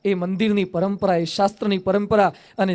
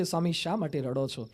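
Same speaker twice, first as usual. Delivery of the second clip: faint dying voice; 5 semitones lower, 12 dB quieter than usual. Acted. Dying Maharaj asks weeping Swami.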